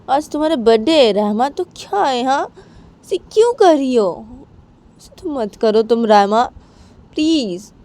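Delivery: high, whiny pleading; pleading friend. Acted. Bani begging Rama on her birthday, high and whiny. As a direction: beg her please, stretched and high.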